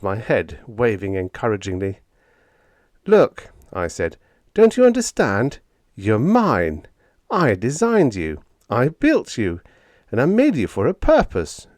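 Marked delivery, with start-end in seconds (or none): 3.1-3.5 loud, high, urgent "Look!"; exasperated shout. A narrator's reading. Narrator confronts rebellious robot. 4.5-11.7 high, loud, insisting on ownership; a flustered boss asserting he owns them; indignant raised voice. A narrator's reading. Owner insists robots are his.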